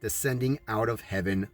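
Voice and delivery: measured, even voice-over read; documentary narration. Acted. Narrator explaining scripture and cities, solemn voice-over.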